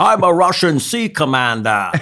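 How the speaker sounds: high, loud, slow Scottish-accented impression; Sean Connery. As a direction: draw it out as a hammed-up movie-star impression. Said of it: "Sean Connery kept the same accent his entire career".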